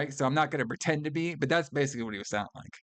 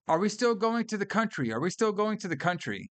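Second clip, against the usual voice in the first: repeated nagging question; 6 semitones higher than usual. Retold or imitated. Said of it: "they keep saying".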